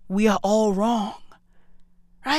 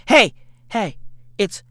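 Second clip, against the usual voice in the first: usual speaking voice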